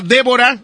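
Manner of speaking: Débora with the accent on the É; DÉ-bo-ra, stressed at the front; stress on first syllable. Real, not acted. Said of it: "es con acento en la E".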